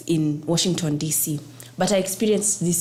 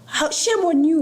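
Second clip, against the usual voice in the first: shame on you; 10 semitones higher, 3 dB louder than usual. Retold or imitated. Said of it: "so bothered".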